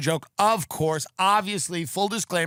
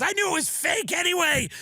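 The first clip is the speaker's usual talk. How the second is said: hammed-up high dying voice; dying friend; 9 semitones higher than usual. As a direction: play the friend choking on the greens, voice way up. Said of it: "He goes".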